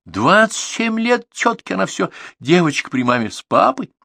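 high, loud exasperated rant; mother shouting on. Acted. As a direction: keep yelling about the grown daughter. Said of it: "закричала мама".

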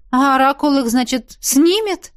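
doubtful question rising high at the end; distrustful. Acted. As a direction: question it with suspicion. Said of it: "Недоверчиво спросила".

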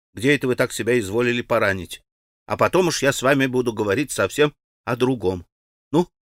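quick questioning. Acted. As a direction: rush before mama returns. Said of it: "быстро заговорила она".

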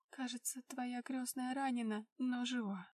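shaky, hushed voice; trembling voice. Acted. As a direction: let the voice tremble a little. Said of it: "дрожащим голосом произнесла она". (дрожащим голосом)

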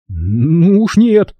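slow, emphatic refusal; cutting in. Acted. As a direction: interrupt with a firm no. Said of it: "тут же перебил".

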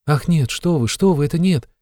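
a quick frightened no; startled denial. A narrator's reading. A girl frightened by his question about beatings, alarmed protest. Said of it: "С каким-то даже испугом".

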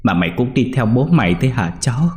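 put-on old man kneels weeping over the dead boy; weeping lament. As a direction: mourn over the body, pleading. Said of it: "quỳ gối xuống khóc bên cạnh".

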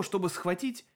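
ordinary delivery, nothing marked

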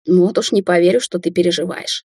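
ordinary delivery

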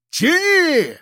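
sharp high shouted command; shouting. Acted. The narrator shouts at Piston to pull the net, high command shout. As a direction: bark it at your partner mid-struggle. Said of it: "ору я".

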